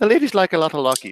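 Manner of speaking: playful put-on Irish accent. After another person says the phrase suits one, repeating it in an Irish accent. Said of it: "it's a good one for an Irish accent".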